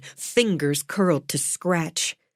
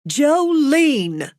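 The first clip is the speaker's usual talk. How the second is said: sharp call; 8 semitones higher, 3 dB louder than usual. A narrator's reading. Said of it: "Florence's voice cut through".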